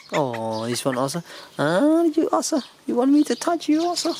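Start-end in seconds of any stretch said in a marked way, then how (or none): 1.6-4.1 higher, quick cooing question. Real, not acted. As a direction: coo at the little one. Cooing at the animals.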